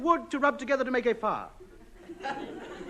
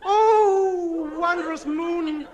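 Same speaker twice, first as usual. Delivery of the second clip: grand, slow poem reading; poetry recital; 5 semitones higher, slower than usual. Acted. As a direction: declaim the sonnet grandly. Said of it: "Sonnet by A H".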